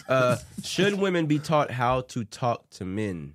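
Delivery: slow, prim bougie voice. Acted. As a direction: put on a bougie drawl. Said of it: "Okay, bougie voice".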